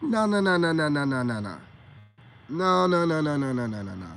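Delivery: dismissive string of noes; firm repeated no. Retold or imitated. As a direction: shut it down, no after no. Cutting off a claim.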